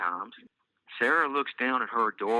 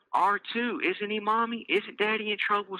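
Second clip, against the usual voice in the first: put-on high delighted child voice; happy squeal; 12 semitones higher than usual. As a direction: squeal it with glee. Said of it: "squeals Elise happily".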